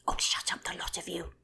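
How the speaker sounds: loud exasperated yell; screaming Magpie. Acted. Magpie yelling at the birds to shut up, loud. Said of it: "screamed Magpie".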